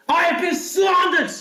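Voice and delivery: shouted in fury; angry shout. Real, not acted. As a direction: yell the grievance. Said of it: "you said it in a weird voice".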